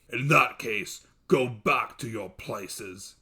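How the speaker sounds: slow, heavy monster voice; a king sending subjects away; dismissive dev. Acted. Dev dismissing his birds, slow and heavy.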